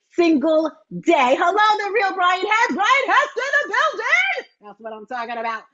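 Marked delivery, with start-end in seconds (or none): 1.4-4.5 much higher, thrilled welcome; excited greeting. Real, not acted. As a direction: hail the arriving guest with delight. Greeting a viewer who joined.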